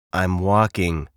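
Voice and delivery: mildly grumpy, falling tone; lightly voiced glum bird; a touch of grumbling.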